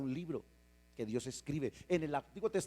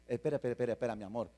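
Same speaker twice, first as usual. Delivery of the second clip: softer, soothing hush; calming parent; 4 semitones lower, 4 dB quieter, faster than usual. Retold or imitated. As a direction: settle the excited kid down gently. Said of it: "tú le dices".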